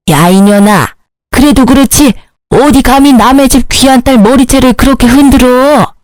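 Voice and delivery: acted indignant mother telling off her daughter; mother's angry telling-off; scolding mother. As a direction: scold your grown child, pitch climbing as you go.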